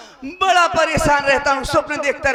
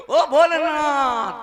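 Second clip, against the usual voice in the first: drawn-out prayer call; 4 semitones higher, slower than usual. Retold or imitated. Praying to Lord Shiva again.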